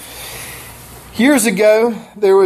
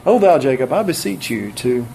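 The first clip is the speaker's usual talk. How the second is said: mock King James plea; 6 semitones lower than usual. Preacher jokingly mimics old Bible phrasing for the congregation, mock archaic plea. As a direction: plead in antique Bible English, half joking. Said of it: "We don't use that word much anymore".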